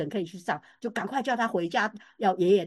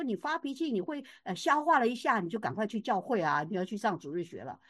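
gentle coaxing; 4 dB quieter than usual. Retold or imitated. Grandmother coaxing the crying child.

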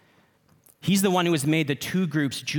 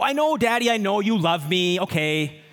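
put-on kid's eye-roll reply; 5 semitones higher than usual. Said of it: "they go".

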